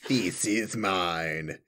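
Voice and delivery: slow, solemn fantasy villain; dark lord. Pretend. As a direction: intone it like a possessive overlord. Playing along with elf bit.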